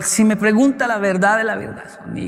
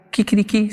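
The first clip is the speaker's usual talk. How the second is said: rooster crow; 4 semitones higher than usual. Retold or imitated. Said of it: "la gallina en Colombia hace".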